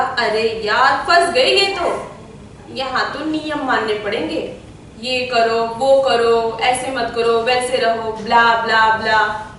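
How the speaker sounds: mostly low-pitched, fed-up grumble; exasperated regret. Acted. Prince's new wife feeling trapped by palace rules, low exasperation. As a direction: recite the rules in a low, weary monotone. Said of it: "बाद में लगा".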